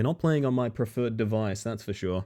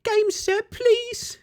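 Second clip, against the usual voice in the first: tiny squeaky urchin voice, much higher throughout; Victorian starving child. Pretend. Streamer begs the game for a controller as a Victorian starving child. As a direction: beg like a starving little street urchin. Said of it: "You're going for Victorian starving child".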